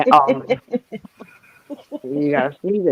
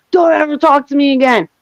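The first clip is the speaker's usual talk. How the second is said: higher-pitched retold telling-off; mildly heated mimicry, pitched up; flipping out; 5 semitones higher than usual. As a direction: imitate someone angrily cutting a friend off. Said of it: "he's flipping out on me".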